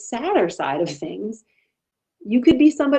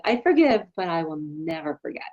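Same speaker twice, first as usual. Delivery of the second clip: joking quip; 3 semitones lower than usual. Retold or imitated. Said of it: "I jokingly".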